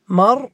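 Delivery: مرمية with ya, marmiya; the original form. Shown as a demonstration. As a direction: say مرمية mar-mi-ya as the base form. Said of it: "الأصل أن أقول هكذا".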